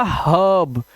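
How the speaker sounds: हर्ब with a long "uh", not "heer"; changed vowel. Shown as a demonstration. Teacher showing er rule, changed vowel. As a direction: draw out the open vowel in हर्ब. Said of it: "आ करने से ये हो जाएगा".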